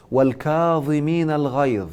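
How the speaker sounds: drawn-out verse recitation; Quran recitation. Real, not acted. Teacher citing the second point from scripture, sustained recitation. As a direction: recite it with long, sustained vowels.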